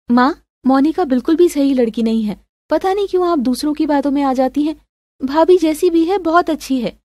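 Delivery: lightly acted persuasion; protesting daughter. Daughter defending her sister-in-law to mother, insistent.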